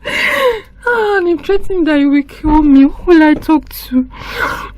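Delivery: put-on girl weeping with nobody to tell; crying to herself. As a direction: sob out the despair alone.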